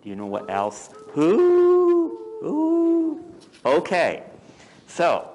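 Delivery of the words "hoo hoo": high, long-drawn owl hoot; high-pitched "hooo" of an owl. Shown as a demonstration. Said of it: "they make a sound like".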